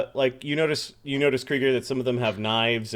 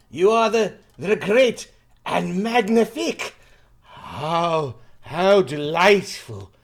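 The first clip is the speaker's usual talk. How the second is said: put-on French accent; 3 semitones higher, 6 dB louder than usual. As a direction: gush like a flattering French host. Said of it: "trying to figure out his accent".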